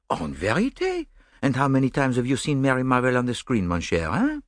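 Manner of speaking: amused, precise Belgian detective; gently mocking his romantic friend; Poirot.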